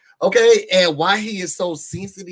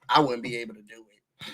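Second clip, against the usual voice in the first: low, soft, laughing aside; 7 semitones lower, 9 dB quieter, faster than usual. Real, not acted. Laughing at the hallway light, softly amused. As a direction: chuckle it under the breath, much softer.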